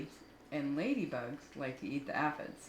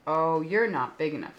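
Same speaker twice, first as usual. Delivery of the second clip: loud boast; 8 dB louder than usual. Acted. Grouchy ladybug boasting.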